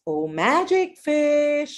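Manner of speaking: slow, drawn-out call to the fish; calling the magic fish. Acted. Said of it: "and goes".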